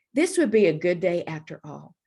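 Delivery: ordinary delivery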